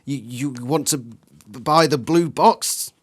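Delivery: slow, halting stammer. Acted. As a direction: trip over the words. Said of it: "you stammer".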